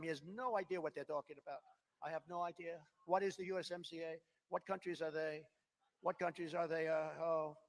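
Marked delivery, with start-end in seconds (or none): 2.0-7.6 soft, bewildered mock of Biden; confused Biden. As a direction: play the lost old man, softly. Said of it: "Biden's looking at them".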